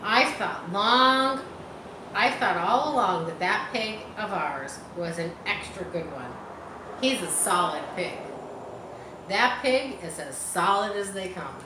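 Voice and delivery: a hint of a pompous boast; important voice. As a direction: puff up like a proud farmer. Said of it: "he said in an important voice".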